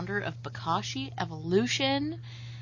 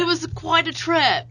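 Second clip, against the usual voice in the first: light Kiwi accent, a bit louder; New Zealand accent; 11 semitones higher, 9 dB louder than usual. Shown as a demonstration. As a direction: put on a Kiwi twang. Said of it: "as much New Zealand accent I could throw".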